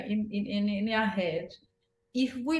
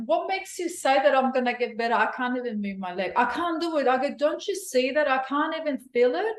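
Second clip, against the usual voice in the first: upset protest; 4 semitones higher than usual. Retold or imitated. Upset patient arguing with physiotherapist.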